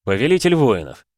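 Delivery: веско, с громким нажимом на «Повелитель»; гигант отвечает тяжело и значительно; тяжело, весомо. A narrator's reading. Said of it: "тяжело ответил гигант". (викинг весомо называет себя адмиралу)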